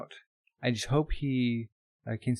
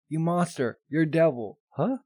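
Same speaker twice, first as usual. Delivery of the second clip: mock outraged protest; 4 semitones higher than usual. Boy rejected by Winry protesting.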